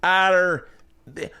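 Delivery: high, slow, botched Scottish chick voice; hammed-up falsetto Scottish woman, drifting off-accent; failed female Scottish accent. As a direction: badly fake a Scottish accent, cracking up. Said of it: "then I'll do female Scottish accent".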